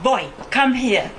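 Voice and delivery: mildly stern imitated father. Father calling daughter over to sit by him, mildly stern. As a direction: give a measured summons, as a stern father would. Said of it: "in a very stern voice".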